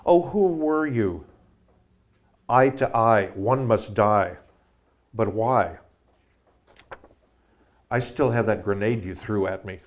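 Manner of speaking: poem reading. Real, not acted. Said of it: "Ode to Private Brainless".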